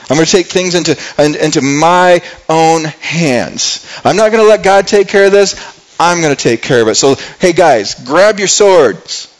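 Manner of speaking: defiant, emphatic resolve building to a command; acted heated vow, rising in pitch; David losing self-control. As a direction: take charge and rally the men. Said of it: "David is starting to lose his self-control".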